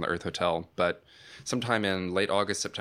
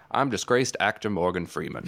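mock-solemn celebrity intro, barely shifted; Morgan Freeman impression. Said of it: "I'll imitate his imitation".

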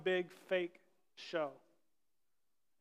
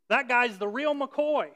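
put-on higher, louder, slow old-timey drawl; 4 semitones higher, 5 dB louder, slower than usual. Shown as a demonstration. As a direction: ham up an old-fashioned phrase. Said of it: "you have to say that in an old-timey voice".

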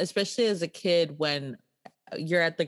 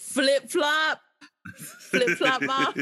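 mock kid shout; 9 semitones higher, slower than usual. Kid calling for mom.

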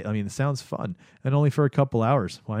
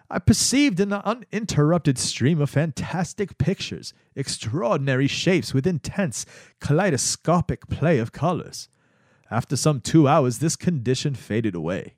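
Albert Hofmann voice; 3 semitones higher than usual. Retold or imitated. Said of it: "I'm gonna do something different".

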